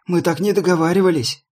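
indignant shout. A narrator's reading. Prisoner protests.

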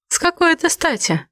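high, sharp blurted challenge; aggressive outburst. A narrator's reading. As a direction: fire it back aggressively. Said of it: "агрессивно выпалила я".

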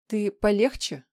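a sharp bristling warning. A narrator's reading. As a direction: snap back, offended. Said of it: "взъерошилась Света".

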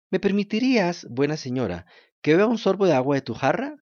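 put-on high, eager wooden-puppet boy; a thirsty puppet boy begging politely. To the kind woman, Pinocho asks for water in a high puppet voice.

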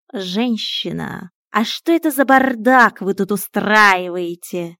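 slow, stern lecturing cat. Acted. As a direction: scold her slowly like a strict house cat. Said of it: "строго спросил кот". (строгий кот, медленно)

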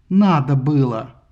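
mother barking at her son; snapped bark. A narrator's reading. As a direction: bark it back. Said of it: "рявкнула в ответ Фетида".

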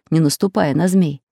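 plain reading voice

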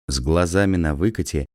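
ordinary delivery

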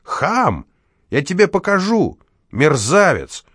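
high, indignant yelling; shouting. Acted. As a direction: shout threats after them. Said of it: "закричал Виктор Михайлович". (Виктор Михайлович кричит вслед уводимому дворнику)

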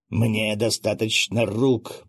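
slow, understated growled threat; a hint of a growl, slowly; mild growl. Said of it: "прорычал он". (сдержанное медленное рычание)

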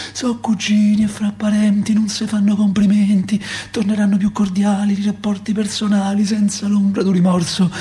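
sing-song reading of a bitter lullaby poem; lullaby recitation. Acted. Reciting a war lullaby to the child, sing-song. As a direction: rock the lines like a lullaby, then sharpen.

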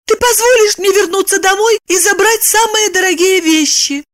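high woman's voice, earnest; serious question. A narrator's reading. Lipochka seriously asking Roman a favour. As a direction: ask very seriously. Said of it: "очень серьёзно спросила".

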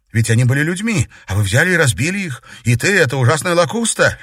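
loud, high, людьми falling hard; indignant protest. A narrator's reading. Katerina protesting to her father, indignant. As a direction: stress людьми with a heavy falling tone. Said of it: "возмутилась девушка".

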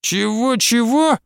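high startled double question; old woman stunned by the retort; taken aback. A narrator's reading. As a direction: caught off guard. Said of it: "опешила Василиса".

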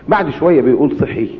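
ordinary talk

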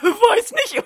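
put-on a dim, happy boy bragging about candy; silly Neville voice. Neville cheerfully tells Harry he ate rat poison.

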